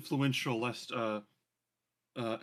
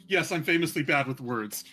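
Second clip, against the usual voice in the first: slightly raised mocking echo; louder, mimicking announcement; magically amplified echo; 5 dB louder than usual. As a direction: proclaim it to the whole street. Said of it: "does this thaumaturgy and just echoes the".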